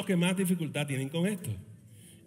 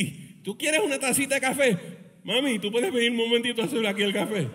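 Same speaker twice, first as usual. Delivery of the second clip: sweet-talking request, quick and laughing; butter up the wife for coffee; husband coaxing his wife into making coffee; 3 semitones higher than usual. Pretend. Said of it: "husband asking wife for coffee".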